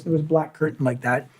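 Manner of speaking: ordinary delivery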